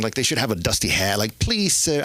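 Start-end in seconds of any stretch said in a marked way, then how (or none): 1.4-2.0 put-on begging squirrel with an English accent; a touch of pleading English accent. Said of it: "give them an English accent".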